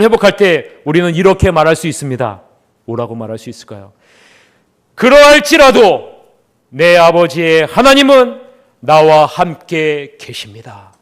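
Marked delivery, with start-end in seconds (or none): 5.0-10.9 slow declaration. Shown as a demonstration. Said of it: "여러분, 따라해 보십시오".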